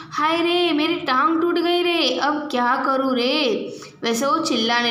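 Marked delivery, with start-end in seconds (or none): 0.1-3.3 mild mock wail of pain; crying out in pain. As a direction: cry out like the old man just broke his leg. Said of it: "तो वो चीख कर बोला".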